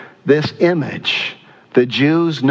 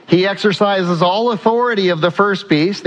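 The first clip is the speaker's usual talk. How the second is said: raised-pitch preacher reading a verse; scripture read-out; 6 semitones higher than usual. Acted. Preacher reading about the first beast, scripture read-out. Reads scripture aloud to congregation.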